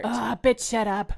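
sharp loud snap. Acted. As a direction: yell it at your sister. Sister snapping back.

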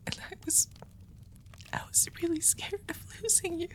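hushed, breathy confession to a lover; soft ASMR whisper; intimate whisper. Acted. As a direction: whisper it close to the ear, afraid to lose them.

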